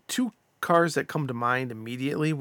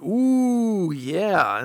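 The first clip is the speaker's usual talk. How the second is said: excited; 6 semitones higher, 6 dB louder than usual. Retold or imitated. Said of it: "and I was like".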